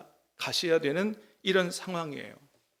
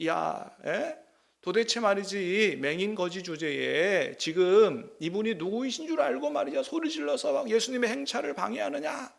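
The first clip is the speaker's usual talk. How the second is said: higher-pitched mock scolding; scolding crowd; 4 semitones higher than usual. Crowd scolding the blind beggar, higher mock rebuke. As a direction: chide the beggar like a haughty crowd. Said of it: "야단을 막 칩니다".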